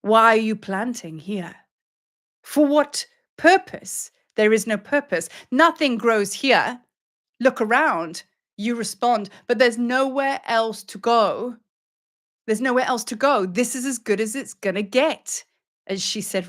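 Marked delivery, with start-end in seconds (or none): 0.0-8.2 stern goddess rebuke. Acted. Lion goddess questions a seeker planting seeds, stern rebuke. 9.5-15.5 higher-pitched, mildly desperate argument; pleading protest. Acted. Seeker answers back to the goddess, mildly pleading.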